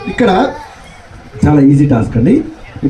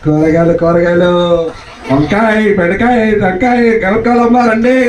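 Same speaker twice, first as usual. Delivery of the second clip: vegetable vendor call; 3 semitones higher than usual. Shown as a demonstration. Host shows contestants the hawker's cry, lightly sung. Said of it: "ఆ ప్రాసలో చెప్పాలి".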